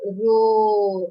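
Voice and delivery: teacher's loud lion roar. Shown as a demonstration. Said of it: "What's the sound".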